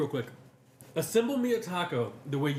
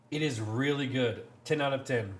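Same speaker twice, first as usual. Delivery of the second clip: unconvincing praise; 3 semitones lower than usual. Real, not acted. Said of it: "why are you saying it like that?".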